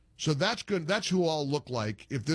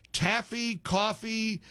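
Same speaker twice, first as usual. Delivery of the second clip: taffy and coffee set against each other, both higher; contrasting words; 6 semitones higher, much slower than usual. Shown as a demonstration. Host correcting the taffy mix-up. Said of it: "coffee drinker".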